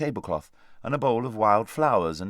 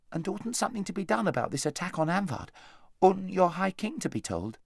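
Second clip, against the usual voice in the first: put-on lightly raised boyish voice, urgent question; a boy pressing the grown-ups, a touch higher; Shasta's voice; 9 semitones higher than usual.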